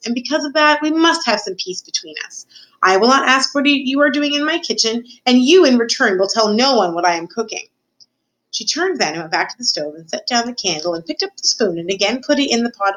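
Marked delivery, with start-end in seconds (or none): 0.0-7.7 high, insistent cook voice; a cook striking a bargain; bargaining story Cook. Acted. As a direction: lay down the terms firmly, pitched up.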